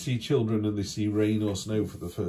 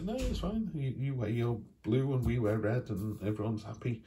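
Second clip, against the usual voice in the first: cheery figure; 4 semitones higher than usual. Retold or imitated. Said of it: "She'll be like".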